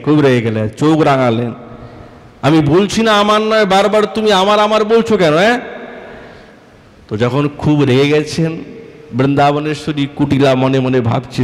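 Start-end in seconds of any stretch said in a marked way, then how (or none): 2.4-5.6 raised, higher pitched angry scolding; angry retort. Acted. Radha angrily rebuking Kutila over the necklace, angry. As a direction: snap back at her in anger.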